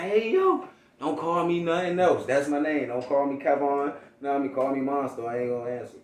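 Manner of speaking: a hyped brother laying down the rule. Retold or imitated. Brother hyped about new name.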